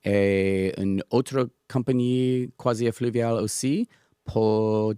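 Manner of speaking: English speaker's halting French; French with a strong English accent; foreign accent in french. Real, not acted. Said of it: "mon français n'est pas bien".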